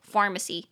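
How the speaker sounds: pharmacy with the stress on PHAR; demo pharmacy. Shown as a demonstration. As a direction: say pharmacy leaning on the first syllable. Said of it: "重音节在第一音节". (重读第一音节的pharmacy)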